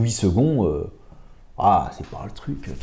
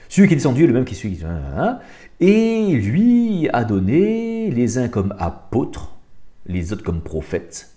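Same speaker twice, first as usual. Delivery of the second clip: scripture reading; 2 semitones higher, 3 dB louder than usual. Acted. Reading the Darby translation to his listeners, emphatic. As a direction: read the Darby verse with weight.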